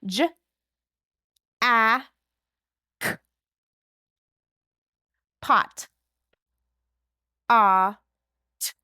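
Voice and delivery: "J, a, k" and "Ah, t" said one by one; sounding out phonemes. Shown as a demonstration. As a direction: sound out each phoneme with pauses. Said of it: "match the sounds to the symbol".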